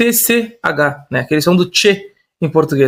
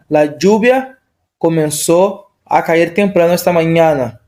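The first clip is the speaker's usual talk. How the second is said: Spanish example sentence, carefully read; 2 semitones lower than usual. Shown as a demonstration. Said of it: "que a gente acabou de ver".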